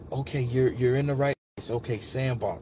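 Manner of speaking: softly reassure, imitating a kind coach; nice, reassuring woman. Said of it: "she was just so fucking nice".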